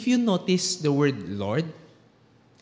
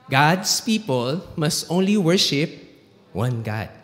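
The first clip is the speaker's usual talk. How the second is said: slow, louder call for the room to join; leading in unison; 4 dB louder, slower than usual. Real, not acted. Preacher has the congregation say it together, slow and emphatic. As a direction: lead the congregation word by word, slowly and firmly. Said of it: "Can we all say this together?".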